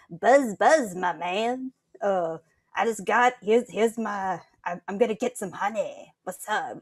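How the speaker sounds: lightly voiced quirky bee; a hint of relaxed bee character; laid-back bee. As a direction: play a casual, easygoing bee. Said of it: "very laid back kinda bee".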